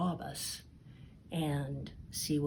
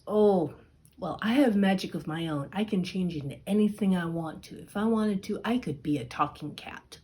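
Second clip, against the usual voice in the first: louder, fast bragging ogre; boastful ogre; 2 semitones higher, 5 dB louder, faster than usual. Acted. Ogre bragging to Puss about his magic, loud and fast. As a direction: show off, puffed up.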